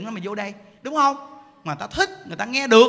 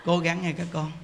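low, quiet sermon murmur; subdued, sleepy preaching; placid preacher; 4 semitones lower, 4 dB quieter than usual. Acted. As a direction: mimic a dull preacher gently urging the listeners. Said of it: "gặp mà im điềm".

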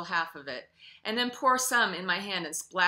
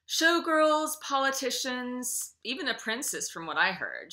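crisp; 6 semitones higher, 6 dB louder than usual. A narrator's reading. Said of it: "she replies crisply".

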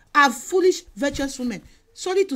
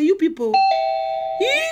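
scolding rebuke; 3 semitones higher, 6 dB louder than usual. Retold or imitated. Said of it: "She will say".

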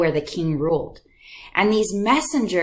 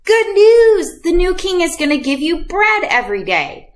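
much higher, louder proclamation; herald's announcement; 9 semitones higher, 5 dB louder than usual. Retold or imitated. Messenger announcing the new king's gifts, herald cry. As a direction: cry it out to the crowd.

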